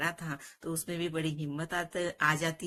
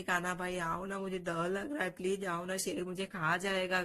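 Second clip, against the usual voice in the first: mock tearful pleading. Scared child keeps begging his brother, mildly tearful. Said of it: "रोते रोते जोर जोर से आवाज".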